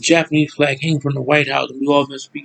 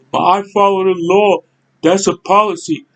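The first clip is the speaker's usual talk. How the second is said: mocking the rule-followers; 4 semitones higher than usual. Mimicking critics who defend the law, in a mock voice. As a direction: parrot them in a prissy higher voice. Mocks the law-abiding opponents.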